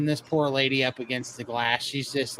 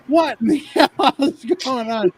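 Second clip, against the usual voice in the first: laughing disbelief; 9 semitones higher, 5 dB louder than usual. Retold or imitated. Stuck in stranger's lap, laughing.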